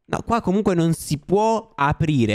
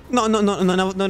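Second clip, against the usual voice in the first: frightened; 3 semitones higher than usual. Real, not acted. Player taking back a curse to the viewers, frightened stammer. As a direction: trip over the words in fright. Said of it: "mi fanno una paura".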